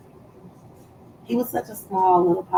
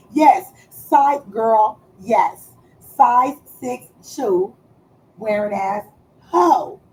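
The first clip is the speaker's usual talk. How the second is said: slow, louder drawn-out insult; sassy roast; 4 dB louder, slower than usual. Real, not acted. Mocking someone with small feet, sassy and slow. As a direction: stretch each word to mock.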